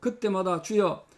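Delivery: steady prayer voice; closing prayer. Acted. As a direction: pray earnestly over the congregation.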